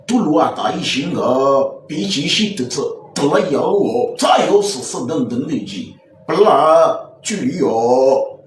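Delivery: drawn-out imitation of spoken Chinese; mock Chinese. African man showing off supposed Chinese, mock Chinese babble. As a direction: babble in a put-on Chinese accent, stretching the endings. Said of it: "c'est quel chinois tu parles".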